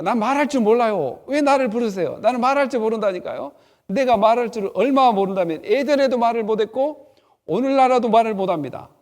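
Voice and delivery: loud, pleading protest with a rise; protesting loudly. Acted. Moses loudly protesting to God, that he cannot speak. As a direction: argue back hard at God. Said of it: "이렇게 따지는 거야".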